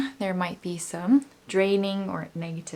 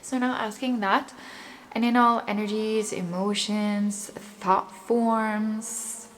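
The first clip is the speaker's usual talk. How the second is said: guided meditation. Acted. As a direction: calmly lead the listener's breathing. Guides affirmations and breathing.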